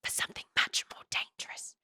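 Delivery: a creepy breathy whisper; menacing whisper. A narrator's reading. The sage leaning close to Violet, whispering menacingly. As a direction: lean in and whisper the threat. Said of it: "he whispers".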